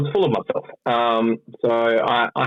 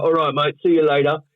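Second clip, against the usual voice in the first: put-on English accent, pitched up; Englishman; 4 semitones higher than usual. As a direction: play a chirpy English delivery man. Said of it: "You're speaking like an, a freaking Englishman right now".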